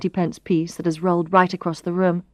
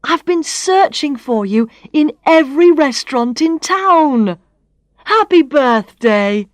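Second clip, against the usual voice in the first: excited Barry; 6 semitones higher, 5 dB louder than usual. Acted.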